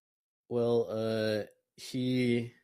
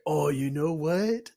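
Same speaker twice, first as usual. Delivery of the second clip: loud, high, drawn-out excited realization; sudden bright idea; 7 semitones higher, 7 dB louder, slower than usual. Acted. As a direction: announce a brainwave, rising at the end. Ulrich has a sudden idea.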